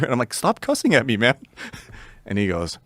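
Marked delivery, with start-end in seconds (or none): 0.3-1.3 playfully aggrieved objection; mock-hurt protest. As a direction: plead with the foul-mouthed alien, pitch up. Protesting the alien's swearing, retold.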